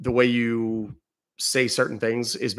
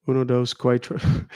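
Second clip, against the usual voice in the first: counting in Spanish. Shown as a demonstration. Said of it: "Counting in Spanish".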